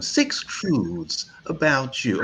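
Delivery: slow, drawn-out mock announcement. Shown as a demonstration. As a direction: sneer it out slowly. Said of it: "Have you seen this bullshit?".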